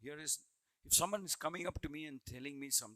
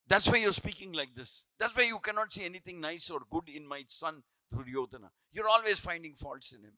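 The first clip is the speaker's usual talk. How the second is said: louder, building accusation against a disloyal adviser; Dhritarashtra confronting; 6 dB louder than usual. Retold or imitated. Blind king accusing his adviser of treachery, loud and indignant. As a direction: berate him like a suspicious king defending his son. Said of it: "one time directly confronted".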